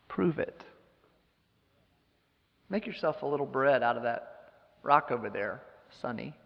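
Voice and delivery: Satan goads a starving Jesus, sneering; Satan taunting. Retold or imitated. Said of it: "Satan comes to him with the stones to bread temptation".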